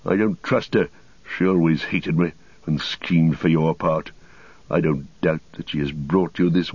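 lightly voiced embittered wizard; a touch of sour, proud grievance; Saruman. Story figure Saruman speaks.

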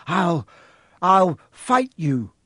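slow, halting brave threat; stammering defiance. Acted. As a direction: force out a scared threat.

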